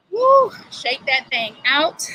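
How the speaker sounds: loud, slow "woo" cheer; excited cheer. Real, not acted. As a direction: cheer them through the shake-out. Coach cheering after the stretch.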